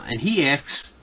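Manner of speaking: Philadelphia accent on asks; slow Philly drawl on asks. Shown as a demonstration. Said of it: "that's my Philly accent there".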